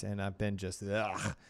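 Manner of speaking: strained, hoarse laryngitis voice. Real, not acted. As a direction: push through a raw, hoarse throat. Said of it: "viral laryngitis".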